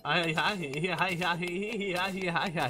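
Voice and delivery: mock cackling. Cartoon hee-ha laughing.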